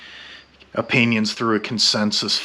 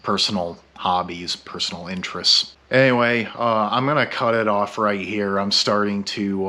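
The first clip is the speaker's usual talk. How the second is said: slightly slurred tipsy speech; talking after a few drinks. Real, not acted. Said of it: "succumb to the effects of alcoholism".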